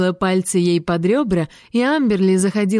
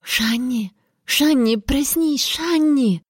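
higher-pitched, insistent calling; urgent wake-up call; 6 semitones higher, slower than usual. A narrator's reading. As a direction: call her out of sleep. Sister shaking sleeper awake.

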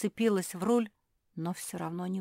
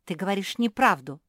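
louder, cross accusation of lying; angry accusation; 3 semitones higher, 8 dB louder than usual. A narrator's reading. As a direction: scold her for lying. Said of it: "рассердилась Капитолина".

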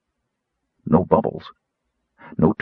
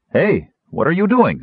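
higher-pitched startled call; 8 semitones higher than usual. A narrator's reading. Sturm to the girl stripping by the pond, calling out. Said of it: "Sturm called".

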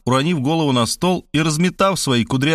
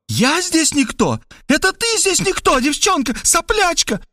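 furious woman. Acted. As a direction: hurl the insults back with scorn. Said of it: "обратила свой гнев на Варвару". (высокий возмущённый женский голос)

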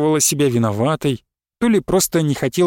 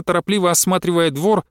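ordinary delivery

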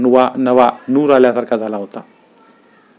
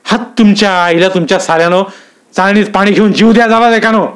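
louder, higher furious cursing; seething officer cursing his men, high and loud; angry swearing; 7 semitones higher, 4 dB louder than usual. A narrator's reading. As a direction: spit the abuse through clenched teeth. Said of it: "दात ओठ खात मंडलिक साहेब म्हणाले".

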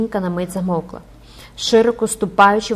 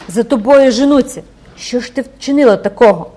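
higher, loud alarmed cry; frightened mother crying out; 4 semitones higher, 10 dB louder than usual. Acted. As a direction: panic as the danger sinks in. Mother realises daughter is hunted.

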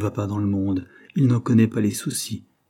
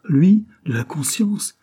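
high, loud and slow, seething with anger; Henry cutting in angrily, high and loud; angry outburst; 8 semitones higher, 5 dB louder, slower than usual. A narrator's reading. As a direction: spit the word back in fury. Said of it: "interrompit encore Henry avec colère".

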